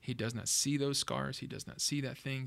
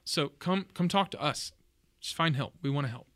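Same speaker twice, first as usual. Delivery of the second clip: tearful plea; 4 dB louder than usual. Real, not acted. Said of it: "I'm trying not to cry".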